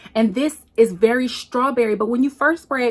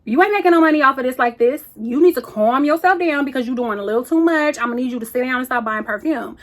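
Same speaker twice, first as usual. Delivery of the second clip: sassy scolding pockets; 3 semitones higher than usual. Pretend. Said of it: "My pockets is like".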